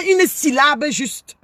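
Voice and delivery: "une syllabe juste" drawn out word by word; slow emphasis. Acted. Scolding critics, stressing every word slowly. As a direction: lean on each word slowly.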